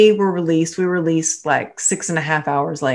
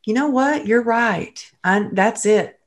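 excited realization; 6 semitones higher than usual. Retold or imitated. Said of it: "And I said".

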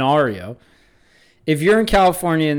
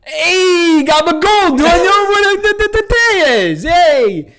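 loud, high mock holler; calling to another driver; 12 semitones higher, 5 dB louder, slower than usual. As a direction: holler over to the next car at the lights. Acts out hailing a car at lights.

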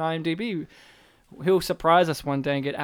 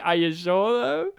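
sarcastic. Retold or imitated. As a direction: play dumb, smart-aleck tone. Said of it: "and I'm like".

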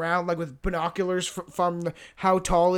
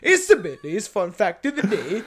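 laughing. Real, not acted. Retrying jingle while laughing.

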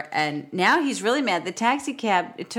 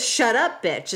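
mock snapping boss; 3 semitones higher, slower than usual. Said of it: "he says".

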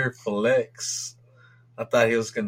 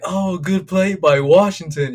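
higher, slower, falsely polite commentator; fake-neutral broadcaster voice; mock announcer; 6 semitones higher, 6 dB louder than usual. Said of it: "just being like".

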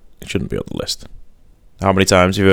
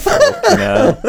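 laughing; much slower than usual. Real, not acted. Laughing hard at mooing cows.

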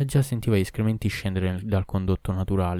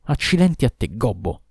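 angry curse; 2 semitones higher, 3 dB louder than usual. Acted. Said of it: "cominciò a parlare".

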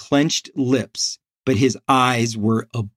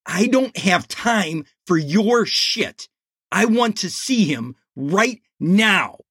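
put-on angry teen; 6 semitones higher than usual. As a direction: bark it at the secretary. Angry teen confronts secretary.

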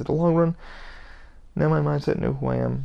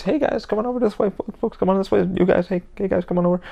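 higher, bright hey guys, come on over; mock cheerful herding of a crowd; friendly call-out; 5 semitones higher than usual. Shown as a demonstration. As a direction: call the group over like a tour guide. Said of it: "you guys know the phrase".

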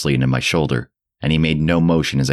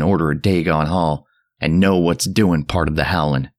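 put-on higher, shriller old man voice; 3 semitones higher than usual. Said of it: "Zadok now grew shriller".

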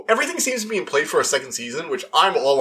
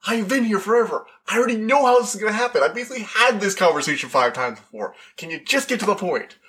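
higher, quick, weary know-it-all; bored all-knowing Kang; 7 semitones higher than usual. Retold or imitated. Vlogger voicing Kang, higher and bored. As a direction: sigh through it like he's done this forever. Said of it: "he played this, like".

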